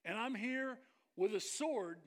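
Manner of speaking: slow, loud, menacing guard announcing his duty; stern temple guard. Retold or imitated. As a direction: lay it down like an armed guard warning you off. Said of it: "They would have said something like".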